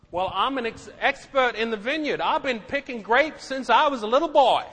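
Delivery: lightly put-on Texas accent, proud of his grape picking. Preacher voices a veteran vineyard worker, light Texas accent. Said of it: "That's a little Texas accent right there".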